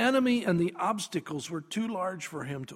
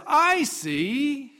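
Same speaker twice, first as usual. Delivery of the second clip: high, loud exclamation of understanding; acted burst of insight; dawning realization; 7 semitones higher, 6 dB louder than usual. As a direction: announce that it just clicked. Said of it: "when it finally dawns upon you".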